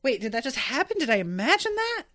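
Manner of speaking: quick, rising disbelieving question; second-guess what you just heard; imitating a baffled viewer, pitch climbing at the end; puzzled double-take. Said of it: "You're just kinda like".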